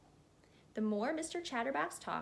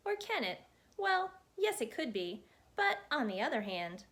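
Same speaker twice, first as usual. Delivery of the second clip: lightly voiced chatterbox. Mister Chatterbox rambling at the hat maker, lightly voiced chatterbox. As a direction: babble on breathlessly, barely pausing, as a chatty little man.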